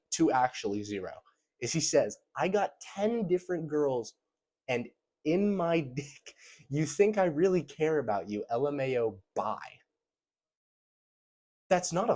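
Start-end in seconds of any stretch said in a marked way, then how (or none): 2.3-9.8 mock smug brag quoting the guy's reply; mocking bragging guy. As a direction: lay on the bragging guy's swagger.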